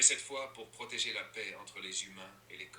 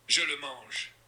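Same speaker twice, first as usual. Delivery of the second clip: hurlé; 4 semitones higher, 5 dB louder, slower than usual. Acted. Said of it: "hurla Pounelou".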